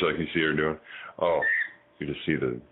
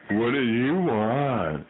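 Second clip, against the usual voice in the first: slow teasing question; 3 semitones higher, slower than usual. Shown as a demonstration.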